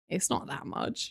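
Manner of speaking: slow, breathy whisper of the line; a quiet little whispered repeat; whispered aside. Shown as a demonstration. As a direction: drop to a hushed whisper, slowly.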